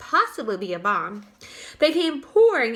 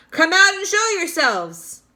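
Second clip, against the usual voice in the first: loud, higher order; commanding shout; 7 semitones higher, 7 dB louder than usual. A narrator's reading. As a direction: bark the order upward. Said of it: "shouted the chief of police".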